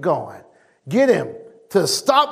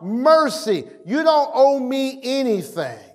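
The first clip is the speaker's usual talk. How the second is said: higher-pitched acted plea; crying out; 5 semitones higher than usual. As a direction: cry it out high, without shouting. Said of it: "Bart began to cry out".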